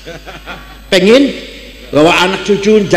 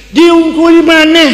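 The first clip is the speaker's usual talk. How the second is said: mock surprise; 8 semitones higher, 4 dB louder than usual. Preacher mocks growing corruption figures.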